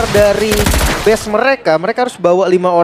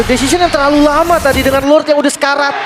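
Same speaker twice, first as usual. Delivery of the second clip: excited commentary; 6 semitones higher than usual. Real, not acted. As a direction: push the energy up. Excited analyst calling play.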